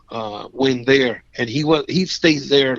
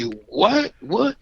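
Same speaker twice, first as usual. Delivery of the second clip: confused what; 8 semitones higher than usual. Retold or imitated. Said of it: "I say".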